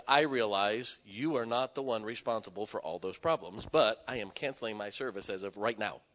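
retelling a firm, controlled cancellation; emphatic but calm. Retold or imitated. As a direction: state it firmly without raising the voice. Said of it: "I just said very emphatically".

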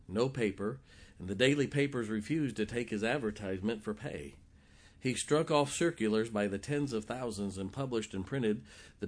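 steady storytelling read; reading a story aloud. Acted. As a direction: read the old account to the congregation. Reads a written story aloud.

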